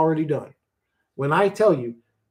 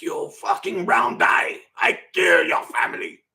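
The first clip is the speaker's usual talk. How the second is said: hammed-up angry Asian accent shout, slow; put-on Asian accent, mock yelling; 3 semitones higher, slower than usual. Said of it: "He's like".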